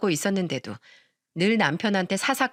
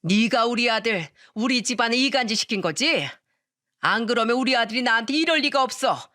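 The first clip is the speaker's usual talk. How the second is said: screaming mother-in-law; 2 semitones higher than usual. Acted. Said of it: "소리를 지르면서 말하더군요".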